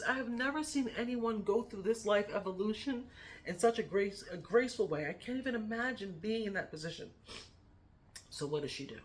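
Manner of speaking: normal talking voice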